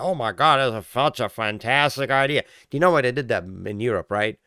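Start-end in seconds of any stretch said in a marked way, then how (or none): 0.0-2.4 mock gushing. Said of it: "you're like".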